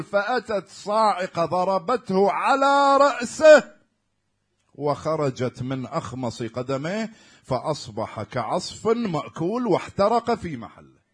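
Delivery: shouted, slow climax of the tale; loud sermon climax; preaching shout. Real, not acted. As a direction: thunder out the lightning strike.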